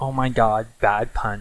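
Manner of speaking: plain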